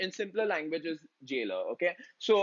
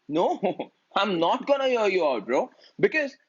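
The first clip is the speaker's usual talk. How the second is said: louder, with a laugh, gloating; laughing refusal; 2 semitones higher, 6 dB louder than usual. Retold or imitated. Shylock laughing off Antonio's plea, loud and gloating. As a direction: laugh him off as you refuse.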